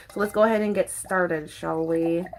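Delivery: a low, hushed tease to begin. Shown as a demonstration. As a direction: drop low and quiet for a mock-sultry so let's go ahead and get started, shall we. Repeats the invitation, different voice.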